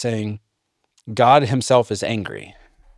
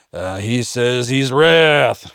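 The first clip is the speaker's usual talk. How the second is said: mock objector; 3 dB louder, slower than usual. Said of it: "you're like".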